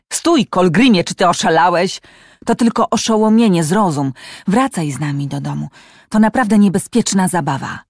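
urgent pleading. Acted. Tarjaj shouts at Kolgrim on the cliff, urgent loud plea. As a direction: stop him before he jumps. Begging boy not to jump.

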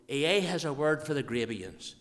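broad, emphatic Ulster Scots. Shown as a demonstration. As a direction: deliver the dialect line with projection. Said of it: "speak Ulster Scotch".

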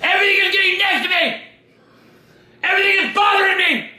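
the same complaint, now shouted out in frustration; stressed outburst. Real, not acted. Dad snapping at his son, fed up and stressed. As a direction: blow up at last, fed up with everything. Dad's outburst repeating himself.

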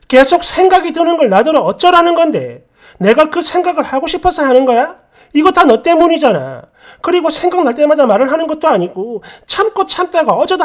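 acted indignant complaint; aggrieved wife. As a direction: argue back, feeling blamed unfairly. Acted wife protesting in quarrel.

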